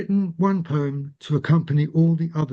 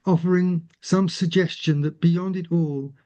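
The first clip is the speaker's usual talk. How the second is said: gentle, lyrical recital; poetry reading; slower than usual. Acted. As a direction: paint the landscape slowly. Reads the last poem.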